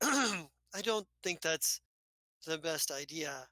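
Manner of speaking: slow, smooth, lightly voiced doctor; a hint of an unflappable doctor, drawn out; calm doctor. GM voices Doctor Telvono calmly.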